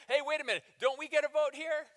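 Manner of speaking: indignant disciples. Retold or imitated. Disciples protesting to Jesus, pushy and loud. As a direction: whine like greedy followers. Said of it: "they, they go".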